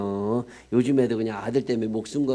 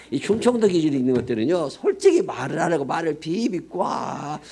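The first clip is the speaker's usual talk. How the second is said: mocking tone; 4 semitones higher than usual. Mocking Chungcheong indirectness.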